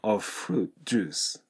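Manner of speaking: "of fruit juice" with of sliding into the F of fruit; merged V and F. Shown as a demonstration. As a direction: swallow the V of "of" into fruit. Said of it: "音は一緒ですので".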